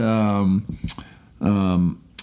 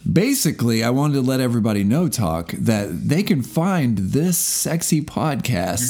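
radio talk show voice. Pretend. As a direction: play the talk show host plugging the show. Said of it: "You're doing your radio talk show voice".

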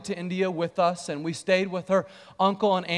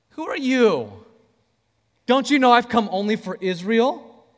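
haughty, looking down. Shown as a demonstration. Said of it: "Talking like that".

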